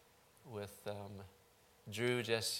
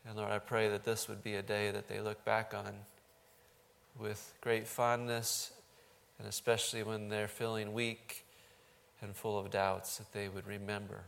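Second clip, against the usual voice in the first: measured, even-toned pastor's prayer; earnest closing prayer in level phrases; public prayer. Real, not acted. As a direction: pray aloud for the congregation, steady and earnest.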